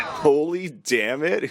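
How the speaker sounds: slow, rising disbelief; incredulous repeat. Real, not acted. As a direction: echo it back baffled.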